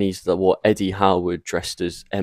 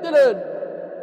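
very high, drawn-out call; high-pitched name call. Retold or imitated. Calling out "Dylan" at the show's start, high-pitched call. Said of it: "And you're like".

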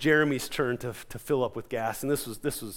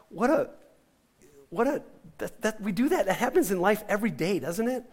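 laughing; 6 semitones higher than usual. Retold or imitated. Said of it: "I just started laughing".

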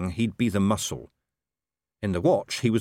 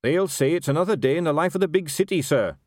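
raised, dutiful wooden reply; 8 semitones higher, 4 dB louder than usual. A narrator's reading. Captain answering his commander about the rioting, woodenly. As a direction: recite it woodenly to your superior. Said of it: "said Carrot woodenly".

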